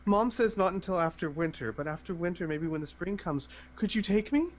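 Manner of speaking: lightly voiced hopeful child; pleading little girl. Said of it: "and she says".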